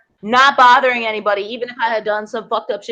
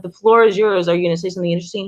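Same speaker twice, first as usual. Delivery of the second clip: retold calm put-down; 7 semitones lower, faster than usual. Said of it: "I'm like".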